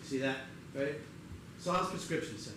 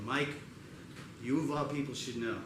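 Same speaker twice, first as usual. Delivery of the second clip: mock consoling; 5 semitones lower, 6 dB quieter than usual. Consoling friend after breakup.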